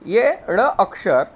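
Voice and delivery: ड़ said slowly as a flapped retroflex; ड़ said as a flapped tongue tap; letter sound shown. Shown as a demonstration. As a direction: spell out ड़ carefully for the class. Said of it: "हम देखते हैं ड़".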